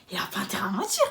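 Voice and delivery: whispered under her breath; unvoiced whisper of a private thought. Thinking it to herself.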